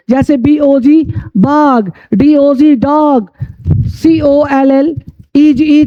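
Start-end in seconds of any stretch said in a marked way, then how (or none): 1.4-1.9 "बाग" with a long open aa; open AA pronunciation. Shown as a demonstration. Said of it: "आ होती है". 2.8-3.3 "डॉग" said as "daag"; long open aa in "डॉग"; open AA pronunciation. Shown as a demonstration. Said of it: "आ होती है".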